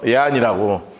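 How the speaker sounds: ordinary talk, nothing marked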